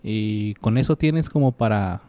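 emphatic urging. Real, not acted. Urging to try pilot.

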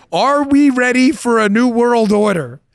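high, slow, loaded emphasis; incredulous title reading. Real, not acted. Host reads a video title to listeners, incredulous. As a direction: draw out the title in amused disbelief.

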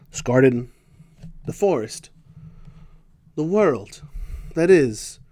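mock-solemn segment intro, measured with long pauses; scripted segment intro. Recites the segment's set intro.

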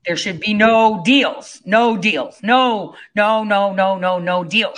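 repeated "no" pressed hard; insistent. Real, not acted. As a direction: hammer each "no" in "no, no, no deals".

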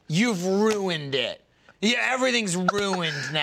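drawn-out mock lament; mock despair. Imitating her reaction to a spill, mock despair. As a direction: stretch it out like a catastrophe. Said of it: "to her, spilling is like".

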